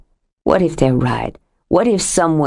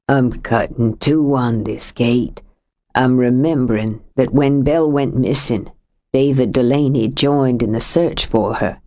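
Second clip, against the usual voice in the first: lightly voiced older man, lower, heavy with grief; a lightly lowered voice for a grieving husband; grieving Sam; 4 semitones lower than usual. Sam recalls the search.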